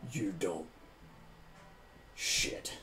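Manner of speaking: soft, dropping to a breathless curse; alarmed mutter. Acted. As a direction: realise the mistake under your breath. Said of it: "He's like".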